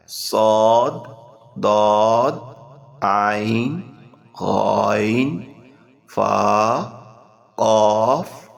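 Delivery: heavy drill voice, letter by letter. Shown as a demonstration. Teacher drills the green letters in a thick, heavy voice. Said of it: "ان کو آپ نے بھاری آواز میں ادا کرنا ہے".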